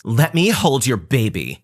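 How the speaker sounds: slow, pushy put-on cousin voice; mock entitled cousin. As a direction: whine it like a spoiled relative. Cousin asks to hold baby.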